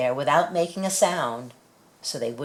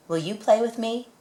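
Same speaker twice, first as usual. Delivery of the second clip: hopeful ask; 8 semitones higher than usual. Acted. Child asks animal to play.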